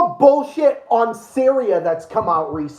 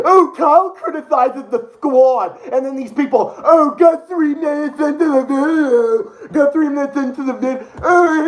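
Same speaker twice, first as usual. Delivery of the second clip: higher, sneering mock voice; mocking critics; 4 semitones higher than usual. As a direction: parody the commenter with scorn.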